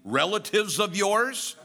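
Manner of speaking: dry, sarcastic jab. Retold or imitated. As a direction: tease the wife with a sarcastic jab. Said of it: "he broke the silence and said sarcastically".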